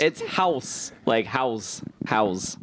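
"House" repeated as HOWSS, falling; clarifying pronunciation. Shown as a demonstration. Reader explaining the spelling to co-hosts, "House" said plainly HOWSS. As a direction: say "House" like the English word, settling it. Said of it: "H A U S".

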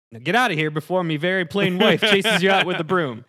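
loud, high-pitched peasant shooing someone off; hammy, mildly upset villager accent. Acted. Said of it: "Jim gets a little upset and goes".

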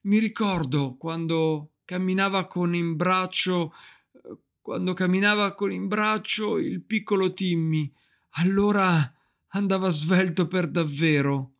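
cheerful on the surface, a hint of tremor; brave cheerful voice. Mother remembers Tiny Tim to her children, bravely cheerful. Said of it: "con una voce forte e allegra che tremò solo un istante".

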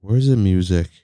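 low, flat, sad monotone; flat robot voice. Pretend. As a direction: drone it out like a bored robot. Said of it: "Why do you sound so sad? Why do you sound like a robot?".

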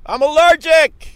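high, loud indignant outburst; angry protest. Real, not acted. To the dog owner, an angry high-pitched complaint.

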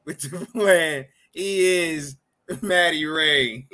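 hyped announcer intro; ring announcer. Acted. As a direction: present him like a ring announcer.

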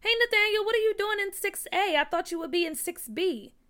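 bright-eyed hail, high and loud at first; excited greeting. A narrator's reading. Peach spots Nathaniel in the wrong class, excited greeting. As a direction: call out to a friend, surprised to see them. Peach hails friend in story.

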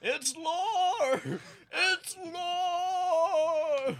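Lore, long open vowel, no ee ending. Shown as a demonstration. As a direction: say it Lore, rhyming with door. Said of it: "Is it Lore or Lori?".

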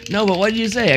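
retold insistent questioning. Retelling grandpa pressing embarrassed boy.

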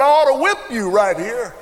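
high, tense angry threat. Retold or imitated. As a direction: snarl the threat at him. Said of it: "and he said".

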